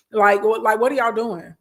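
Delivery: real exasperation rising; getting heated. Real, not acted. Host scolding viewers who aren't posting, heated. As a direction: let the frustration boil up, then catch yourself. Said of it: "I'm getting heated again".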